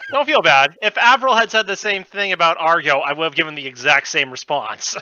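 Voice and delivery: laughing. Real, not acted. Laughing reassurance.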